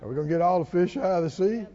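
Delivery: quick, understated sarcastic question. Retold or imitated. Preacher repeats Moses's question in passing, sarcastic. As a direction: toss the question off quickly, lightly mocking. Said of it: "See, that's sarcastic".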